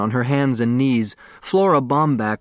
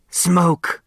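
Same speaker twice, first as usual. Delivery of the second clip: startled cry; 7 semitones higher than usual. Acted. Woman suddenly sees smoke.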